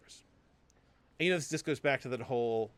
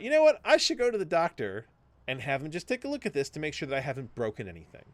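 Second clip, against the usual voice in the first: inner voice; 3 semitones higher, 4 dB louder than usual. Retold or imitated. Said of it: "And I thought".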